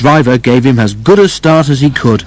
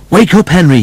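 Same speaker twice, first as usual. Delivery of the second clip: higher-pitched rousing call; urgent wake-up call; 7 semitones higher, 3 dB louder than usual. A narrator's reading. Driver rousing Henry for emergency.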